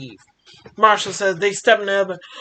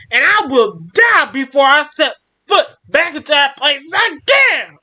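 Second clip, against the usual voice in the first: furious yell; 3 semitones higher than usual. Acted. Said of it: "'Cause I need to release some of that yelling".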